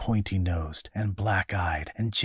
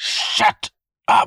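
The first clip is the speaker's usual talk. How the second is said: very loud, blaring shout; 12 dB louder than usual. A familiar voice in the darkness answers a chorus of whining voices, blaring shout. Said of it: "The familiar voice blared".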